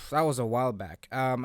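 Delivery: normal talking voice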